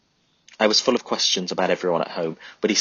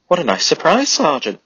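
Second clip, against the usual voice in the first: high, loud, chirped mock politeness; chirpy cheek; 9 semitones higher, 8 dB louder than usual. Charlie greets the hated sergeant, chirpy and mocking. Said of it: "Charlie chirped".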